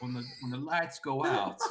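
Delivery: hint of Southern twang. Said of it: "from the South".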